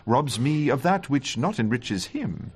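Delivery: grand theatrical delivery of Othello lines, slowing at the end; Shakespeare recitation. Acted. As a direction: declaim it like a courtroom speech. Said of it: "is that one of your speeches".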